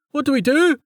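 high, panicked sailor's yell; bellowed. A narrator's reading. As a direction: call out desperately for orders. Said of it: "one of the sailors bellowed".

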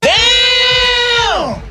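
long, high, loud exclamation; impressed exclamation. Real, not acted. Host reacting to a fiery speech, loud drawn-out exclamation.

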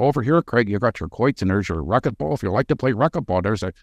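lightly imitated Shamokin coal miner accent; a hint of Pennsylvania coal miner accent. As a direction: play a local guide with a Shamokin accent. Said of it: "his little Shamokin coal miner accent".

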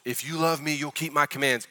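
mock legalistic condition; judgmental rule. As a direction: hand it down as a judgment, understated. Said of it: "a statement of judgment and a statement of rules".

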